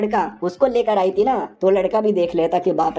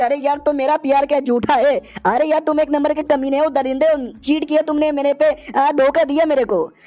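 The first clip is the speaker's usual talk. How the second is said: higher, heated accusation; hurt accusation; 4 semitones higher than usual. Acted. Jilted witch accuses the hero of cheating, heated. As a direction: throw the betrayal at him.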